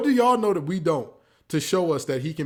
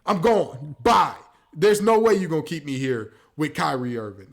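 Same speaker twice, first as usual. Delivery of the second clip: a lightly voiced Luka, building to a loud fed-up exit; pretending to be Luka; 3 semitones higher, 5 dB louder than usual. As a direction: grow louder and higher as he decides to leave. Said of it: "if I'm Luka Doncic".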